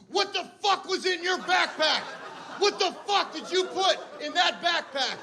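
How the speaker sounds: high, shrill mock yell at husband; hammed-up furious wife yelling; imitating a scream. Wife screaming about the backpack, mock angry yell. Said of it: "just screaming".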